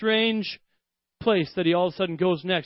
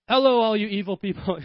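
mock guest speaker; 3 semitones higher, 4 dB louder than usual. Mock guest speaker greeting church.

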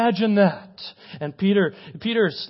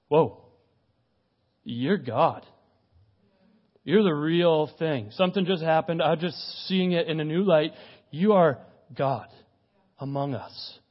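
awed realisation. Acted. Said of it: "And Peter said, all of a sudden this moment came to life".

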